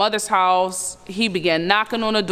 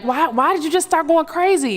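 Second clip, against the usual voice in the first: crying plea; 7 semitones higher than usual. Retold or imitated. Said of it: "he began crying".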